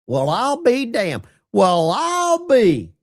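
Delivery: a hint of Gomer Pyle, drawn out; Gomer Pyle impression. Streamer doing Gomer Pyle for his chat, light mock drawl. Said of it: "that's my best Gomer Pyle voice".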